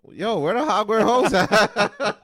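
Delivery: slow, loud laughing call; laughing shout. Real, not acted.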